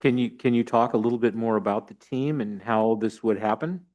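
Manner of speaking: muffled behind a mask; speaking through a cloth mask; through a face mask. Real, not acted. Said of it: "trying to speak through my mask".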